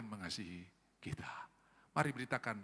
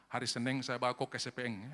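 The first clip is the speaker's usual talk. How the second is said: put-on Makassar accent; 2 semitones lower than usual. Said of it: "itu orang Makassar".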